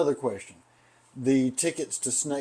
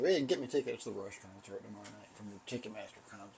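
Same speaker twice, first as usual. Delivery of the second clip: low, quick sarcastic mumble; kinda sarcastic; 5 semitones lower, 12 dB quieter, faster than usual. Retold or imitated. Fired employee walking out, sarcastic muttered retort. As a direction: toss it off sarcastically, lower, softer and fast. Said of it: "just being kinda sarcastic".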